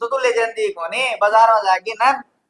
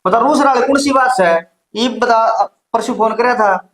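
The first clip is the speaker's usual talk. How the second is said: loud, forceful challenge; argumentative retort; 5 dB louder than usual. Acted. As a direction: argue back loudly at your sister. Brother argues back at sister. (ज़ोर से बहस करते हुए)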